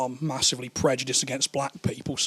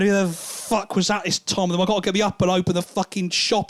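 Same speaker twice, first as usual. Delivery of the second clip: put-on groggy girlfriend; 4 semitones higher, 3 dB louder than usual. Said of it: "rubbing her eyes and going".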